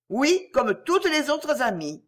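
high, slow, bitter stress on toutes; vehement scorn. A narrator's reading. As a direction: drag out the scorn for all her friends. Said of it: "s'écria avec véhémence". (amer et appuyé sur toutes, lent et aigu)

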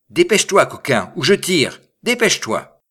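loud, high, threatening order; rough shout. A narrator's reading. Bourgmestre threatening the rascal in the cistern, rough shout. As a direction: shout it harshly down a hole. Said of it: "s'écria d'un ton rude".

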